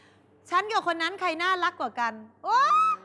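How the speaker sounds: bait him with a loaded question; mock needy girlfriend fishing for a fight; provoking girlfriend. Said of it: "ตั้งคำถาม ชวนทะเลาะ".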